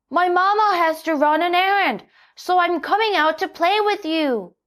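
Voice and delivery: put-on eager kid inviting play; Jackie. A narrator's reading. Jackie tells his friend he can come play.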